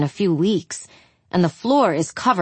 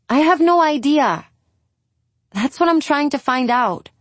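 frustrated; 8 semitones higher than usual. Acted. Julia frustrated with Angie.

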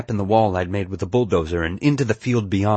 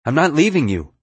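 raised, insistent yell; yelling back; 7 semitones higher, 5 dB louder than usual. A narrator's reading. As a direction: yell back a stubborn refusal. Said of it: "I yelled back".

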